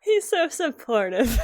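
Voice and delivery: amused, doting delivery; gushing through laughter. Acted. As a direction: gush fondly, breaking into a laugh. Player gushes over Jan, laughing.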